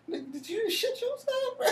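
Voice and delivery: high, whiny, half-sobbing; mock crying voice. Teasing the scared cousin in a high mock whimper. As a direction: squeak it out like a teasing cry. Mocking cousin who soiled himself.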